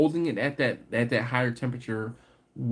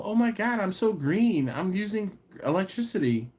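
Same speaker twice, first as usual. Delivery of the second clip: smug mock voice; 6 semitones higher than usual. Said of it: "I'm not, you know".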